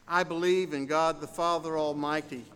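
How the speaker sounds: soft, steady liturgical recital; creed recitation. Acted. Pastor leading the congregation in the Apostles' Creed, soft recital.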